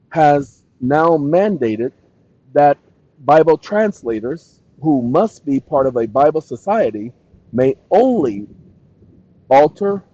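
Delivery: dictation. Real, not acted. Streamer dictating claims to a chatbot, dictation. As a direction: dictate each phrase carefully, pausing between.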